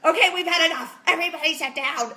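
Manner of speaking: put-on loud, sharp order to the kids; acted exasperated mom command; fed-up parent. Voices herself snapping at the kids.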